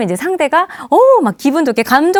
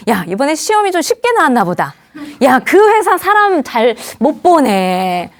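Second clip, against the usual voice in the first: joking put-down; 2 semitones higher than usual. Acted. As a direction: needle a friend playfully. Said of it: "장난식으로라도 그렇게 하면".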